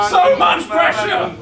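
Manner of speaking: slow, high mock-panicked cry; drawn-out comic distress; escalating mock panic. Comic build-up, repeated more intensely.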